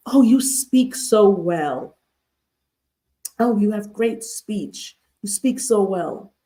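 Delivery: slow, drawn-out mock compliment; acted backhanded admiration, taken slowly; condescending compliment. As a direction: imitate patronizing praise, stretching the words. Acts out a condescending microaggression.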